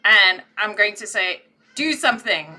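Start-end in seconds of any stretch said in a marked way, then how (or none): 1.7-2.5 muffled by the spoon; mouth full. Acted. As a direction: talk around a spoon held in teeth. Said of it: "with the thing in my mouth".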